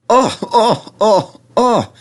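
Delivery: high, loud startled cries; trucks screaming. A narrator's reading. Silly trucks squealing as Edward pulls them, high and loud. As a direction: squeal in alarm at each jerk. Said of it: "they cried again".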